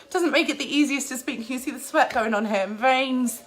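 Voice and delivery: breathless after a workout; panting between words; out of breath. Real, not acted. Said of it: "I'm so out of breath right now".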